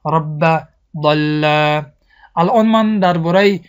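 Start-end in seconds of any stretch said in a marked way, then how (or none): 0.1-1.4 doubled b in رب and l in ضل, no nasal hum; firm doubled consonants in رب ضل, kept out of the nose; slow recited رب ضل with non-nasal doubling; without ghunna. Shown as a demonstration.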